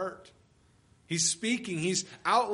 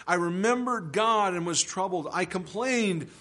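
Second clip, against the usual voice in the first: the psalm read out louder, with feeling; dramatic scripture reading; 4 dB louder than usual. Acted. Preacher reading the psalmist's lament to the church, forceful. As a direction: proclaim the lament to the congregation.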